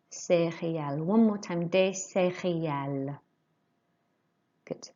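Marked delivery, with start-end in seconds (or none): 0.1-1.0 "Céréales" modelled with the voice lifting on the accented syllables; voice going up. Shown as a demonstration. Teacher shows learners how céréales is said, voice going up. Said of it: "hear my voice here going up". 1.7-3.2 "Des céréales" modelled with the voice lifting within "céréales"; voice going up. Shown as a demonstration. Teacher repeats des céréales for the class, voice going up. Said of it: "hear my voice here going up".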